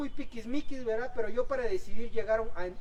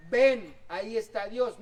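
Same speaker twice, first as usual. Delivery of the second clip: a little louder, slow and sure; bolder invitation; 4 dB louder, slower than usual. Shown as a demonstration. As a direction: call it out with conviction. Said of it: "lo único que tienes que decirle es".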